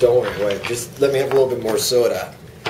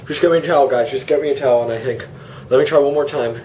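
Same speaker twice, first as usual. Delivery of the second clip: with a nosebleed. Acted. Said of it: "my nose is bleeding".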